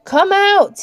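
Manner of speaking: high, loud coaxing call; sweet-voiced calling out; smooth, almost sweet. A narrator's reading. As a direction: call out sweetly to coax someone from hiding. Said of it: "suddenly smooth and almost sweet".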